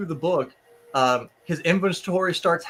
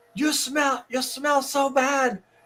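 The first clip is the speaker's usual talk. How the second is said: acted-out high, drawn-out yell; 8 semitones higher than usual. Retelling a book character yelling at a demon: imitating someone yelling. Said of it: "yelling at the, like, at the demon".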